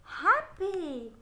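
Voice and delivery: Happy blended quickly; said fast. Shown as a demonstration. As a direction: say happy quickly as one word.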